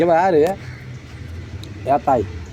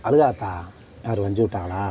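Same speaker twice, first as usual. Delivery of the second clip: soft, low, tender question; gentle concern; 4 semitones lower, 3 dB quieter than usual. Real, not acted. Consoling a crying woman, asking who scolded her, gently concerned. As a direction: ask softly and low, as if consoling.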